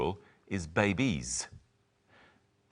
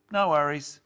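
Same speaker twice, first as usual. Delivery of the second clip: cheerful model phrase; 8 semitones higher, 5 dB louder than usual. Shown as a demonstration. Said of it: "a common Australian phrase".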